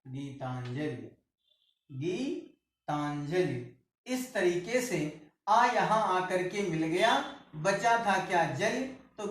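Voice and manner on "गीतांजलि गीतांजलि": गीतांजलि stretched out, softer and lower; very slow. Shown as a demonstration. Teacher dictating the word to the class, very slow and soft. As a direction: drag out गीतांजलि so students hear each part. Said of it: "teacher repeats the joined word".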